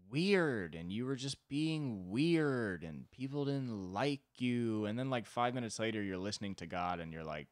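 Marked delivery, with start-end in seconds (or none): 0.1-4.9 slow, drawn-out awkward reproach; inarticulate God. Acted. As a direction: drag out the clumsy criticism. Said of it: "if God wasn't well-spoken".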